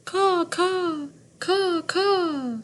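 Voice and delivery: high, falling caw caw; crow caw. A narrator's reading. Teacher reading to class, cawing like a crow. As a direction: call out like a crow. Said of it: "Crow calls out".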